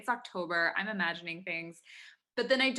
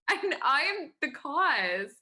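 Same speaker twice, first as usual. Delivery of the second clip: higher, louder, slow laughing confession; laughing admission; 7 semitones higher, 6 dB louder, slower than usual. Real, not acted. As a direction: laugh it out, guilty. Laughs admitting her fault.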